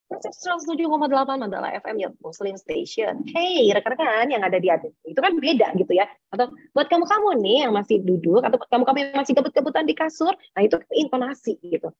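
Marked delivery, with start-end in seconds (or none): 0.1-4.9 lightly voiced radio DJ station ident; radio presenter. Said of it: "Kalau misalnya kita dengerin radio". 6.7-10.3 radio presenter. Acted. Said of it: "ketika kita mendengarkan penyiar radio".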